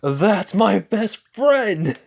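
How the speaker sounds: high, slow, proud shout of "That's my best friend!"; proud cheer. Retold or imitated. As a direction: crow it like a proud buddy. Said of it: "Issei just says".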